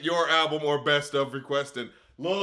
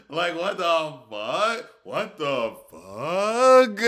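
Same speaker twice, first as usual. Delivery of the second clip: stunned disbelief; 6 dB louder, much slower than usual. Real, not acted. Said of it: "disbelief at going viral".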